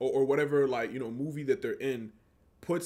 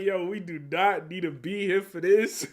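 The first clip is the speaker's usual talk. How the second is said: laughing mock protest; 5 semitones higher, 4 dB louder than usual. Viewer reaction retold, laughing.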